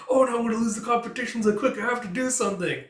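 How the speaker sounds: hammed-up little-girl alarm; mock kid panic. Anya fearing losing competition.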